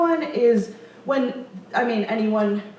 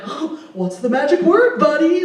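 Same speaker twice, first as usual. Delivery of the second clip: mock scolding teacher; 4 semitones higher, 4 dB louder than usual. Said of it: "Am I supposed to be like".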